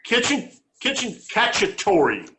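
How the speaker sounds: high, showy Italian-flavoured dish name, "kitchen cacciatore" sung out; mock Italian announcement. Cooking show host naming the dish in a hammed-up Italian accent. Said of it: "I wish I had a little bit of an Italian accent".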